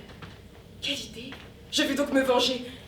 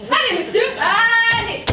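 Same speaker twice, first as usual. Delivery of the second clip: higher, louder push out the door; urgent shooing; 7 semitones higher, 5 dB louder, slower than usual. Acted. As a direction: hurry him out, rising to a cry. Urging him out onto balcony.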